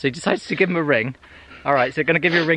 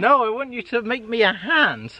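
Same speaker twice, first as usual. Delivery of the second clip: high, slow, hammed-up lord; posh voice; 7 semitones higher than usual. Lord ordering a hand from his carpenter, posh voice. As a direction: spell out the order in mock-posh tones. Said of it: "It's my posh voice".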